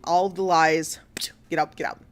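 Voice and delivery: 2 breathy whispered get out; 3 hiss it under your breath, dead serious. Retold or imitated. 4 Risa to her lying husband, a venomous whisper.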